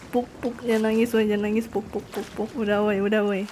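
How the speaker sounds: low, very soft hushing; soothing. Real, not acted. Hushing a crying friend with puk-puk, soft soothing. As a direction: pat them calm with a hushed, low voice.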